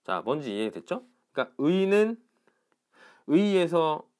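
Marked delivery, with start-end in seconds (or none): 1.6-2.2 의 said as a full diphthong, higher; pronunciation demo. Shown as a demonstration. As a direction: sound out 의 fully, both vowels. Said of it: "요런 건 어떻게 발음하냐면".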